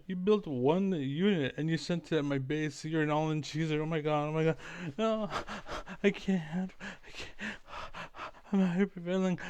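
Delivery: high, hammed-up whiny complainer; mocking whiny gamer. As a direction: pitch it up, mock a crybaby gamer. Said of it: "and I say".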